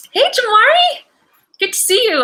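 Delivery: high, loud, delighted hello; excited greeting. Real, not acted. Host greets returning viewer Jamari, excited and high-pitched.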